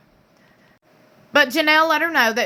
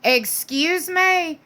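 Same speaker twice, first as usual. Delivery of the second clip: sassy; 5 semitones higher, much slower than usual. Retold or imitated. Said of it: "She's gonna be like".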